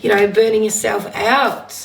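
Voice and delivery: husky, slightly rough voice. Real, not acted. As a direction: speak through a husky throat. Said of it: "says me with this husky voice".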